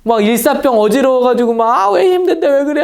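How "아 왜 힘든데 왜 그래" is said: high, louder mock complaint; mock whining. Preacher mocking a tired, sunstruck crowd, high whine. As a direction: whine as a tired, hungry worshipper. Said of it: "하고 막 울었을까요?".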